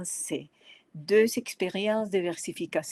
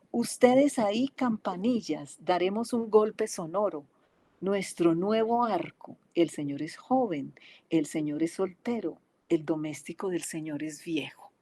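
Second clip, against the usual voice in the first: poem recitation. Acted. Lecturer reciting her Spanish translation, measured poetic reading. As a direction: recite line by line, easing down toward the end.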